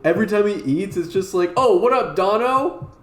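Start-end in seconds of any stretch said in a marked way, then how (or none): 1.6-2.9 loud, high game voice greeting; a loud cartoon greeting; sound-effect voice. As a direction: blare it like a modded game sound. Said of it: "And he's like".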